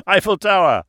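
put-on high, loud accented delight; amused exclamation. A narrator's reading. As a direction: echo the joke with booming relish. Amused host repeats the joke.

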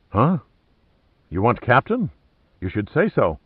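feigned panic in broken English; faked fright. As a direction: play the cowering sailor. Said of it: "a mask of pure fright".

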